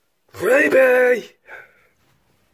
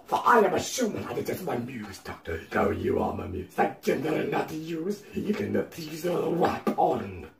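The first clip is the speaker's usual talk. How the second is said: put-on Russian accent; 4 semitones lower, 4 dB quieter than usual. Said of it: "Notice how I do a Russian accent now".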